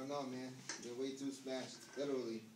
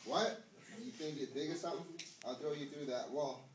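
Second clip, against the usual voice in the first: angry challenge; 2 semitones higher, 3 dB louder than usual. Acted. Drunk friend threatens Carlo in a rising angry voice. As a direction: square up and threaten him.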